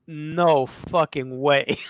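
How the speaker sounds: slow, drawn-out disbelief; retold disbelief. Storyteller recalling spotting someone on Broadway, slow disbelief. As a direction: stretch it out, re-enacting stunned recognition. Recounting his shock at the sighting.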